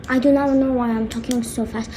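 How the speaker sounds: hurried, irritated muttered defence; fast talking. Acted. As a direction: rattle it out in annoyance. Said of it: "I just talk fast".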